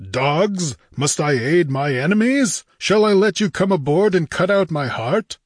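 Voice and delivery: understated lion-like roar; mild roar. A narrator's reading. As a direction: silence them with scornful questions. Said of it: "silenced with a lion-like roar".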